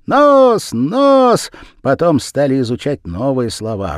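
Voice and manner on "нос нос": high loud chant of words; children shouting. A narrator's reading. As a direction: yell each word as a class.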